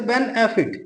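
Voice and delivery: benefit stressed on the opening BEN; stress on first syllable. Shown as a demonstration. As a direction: put the weight on BEN in benefit. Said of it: "बेन पे, first syllable पे". (benefit में बेन पर ज़ोर)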